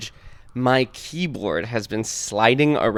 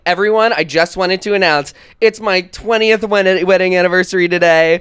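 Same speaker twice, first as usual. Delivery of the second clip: public announcement voice; 6 semitones higher, 5 dB louder than usual. Retold or imitated. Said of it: "I'm like".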